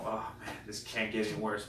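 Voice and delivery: defeated. Retold or imitated. Walking home after a horrible shift, quietly defeated. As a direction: mumble it, a touch defeated. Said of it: "like, defeated the whole way".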